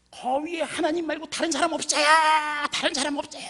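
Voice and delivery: high, loud shout up the cliff. Retold or imitated. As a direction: yell for anyone else up there. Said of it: "하고 소리를 질렀습니다".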